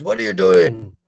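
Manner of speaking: loud, high, incredulous demand; indignant lion. Acted. Lion to the cub it has caught, indignant shout.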